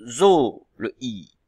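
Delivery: "zo" loud and drawn out; syllable singled out. Shown as a demonstration. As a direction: isolate "zo" after a pause, stretched. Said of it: "exactement dans quelle syllabe".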